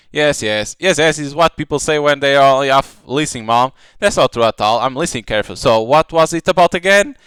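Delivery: lightly acted brother and sister bickering over pudding; voiced sibling quarrel. Brother grills his sister about the missing pudding, lightly acted heated voices.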